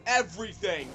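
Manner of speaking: loud, relishing villain command; gleeful destructive roar. Pretend. Giant monster on a village rampage, loud gleeful command. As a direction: order total destruction with relish.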